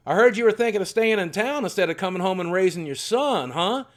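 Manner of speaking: a lightly voiced angry old man laying down the law; grandfather confronting.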